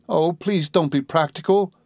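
high, pleading coax. A narrator's reading. Dora begs her sweetheart not to be practical, coaxing. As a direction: coax him in a lifted, girlish voice. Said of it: "said Dora coaxingly".

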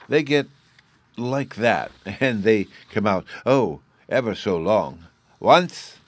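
put-on high, eager child voice; little boy Bruno. A narrator's reading. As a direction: chatter like an excited small boy.

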